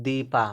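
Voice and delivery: दीपा with a long ee in the first syllable; long vowel sound. Shown as a demonstration. Teacher showing learners the long sound, long ee in दीपा. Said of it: "दीपा बोलने में long sound निकल रहा".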